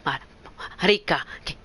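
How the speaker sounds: gasping under cold shower; in ice cold water. Real, not acted. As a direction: yelp at the freezing water. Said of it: "qué fría el agua".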